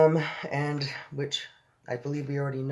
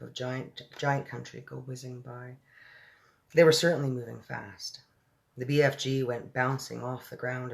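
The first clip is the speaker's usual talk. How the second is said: measured read-aloud storytelling; story narration. A narrator's reading. Reader telling of Sophie in the giant's ear, story narration. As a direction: read it evenly, with pauses between phrases.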